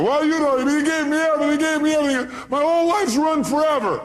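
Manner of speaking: hammed-up pleading caller; caller's voice. Caller pleading with Robbins on radio, high whine.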